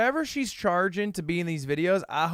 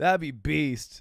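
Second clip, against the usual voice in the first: normal talking voice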